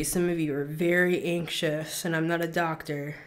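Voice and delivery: calm and soothing. Real, not acted. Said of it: "let's slow down the energy".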